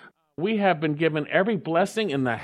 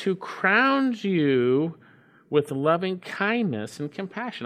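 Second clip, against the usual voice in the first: slow scripture reading; slower than usual. Acted. Reads the verse slowly.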